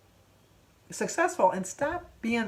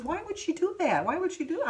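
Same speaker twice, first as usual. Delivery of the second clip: upset grandson; 10 semitones higher than usual. Retold or imitated. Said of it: "David come in and he says".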